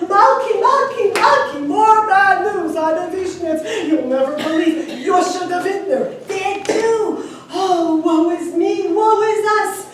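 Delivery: frantic, high-pitched yelling; screaming like a lunatic. A narrator's reading. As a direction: wail and yell as if beside yourself. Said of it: "scream and yell like a lunatic".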